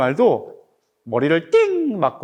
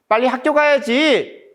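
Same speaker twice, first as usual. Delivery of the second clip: higher-pitched scolding call; parent urging child; 7 semitones higher, 3 dB louder than usual. Acted. Mother hurrying her child off to school, raised urging voice. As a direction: read it as a parent chivvying a child. Parent's line from the picture book.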